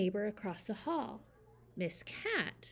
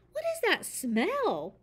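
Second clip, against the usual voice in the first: high, loud, slow complaint; cried out; 9 semitones higher, 5 dB louder, slower than usual. Acted. Miss Cat complains about the smell, crying out. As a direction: whine it out slowly. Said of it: "cried Miss Cat".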